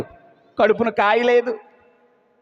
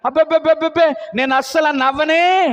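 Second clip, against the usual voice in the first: 1 flustered denial; 4 semitones higher than usual. Acted. Sarah denies laughing.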